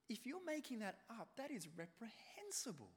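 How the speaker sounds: hushed whispered condemnation. Real, not acted. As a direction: whisper it in disgust. Condemning the lie.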